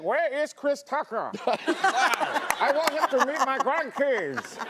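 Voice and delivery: lightly voiced Mandela.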